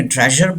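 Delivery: "ट्रेजर" with the final R sounded; wrong pronunciation. Shown as a demonstration. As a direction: say "ट्रेजर" ending in a clear R. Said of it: "दोनों wrong हैं". (ट्रेजर का आख़िरी र बोलकर)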